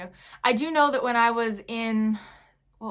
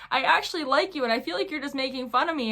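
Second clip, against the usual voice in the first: higher-pitched, mildly exasperated protest; frustrated retelling; 5 semitones higher than usual. Retold or imitated. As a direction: replay a pent-up complaint, lightly. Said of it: "I was just so frustrated".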